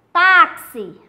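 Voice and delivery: "Táxi" with a loud first syllable; stress on TÁ. Shown as a demonstration. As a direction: punch the "Tá" in "Táxi". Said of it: "é o tá". ("Táxi" com o "Tá" bem forte)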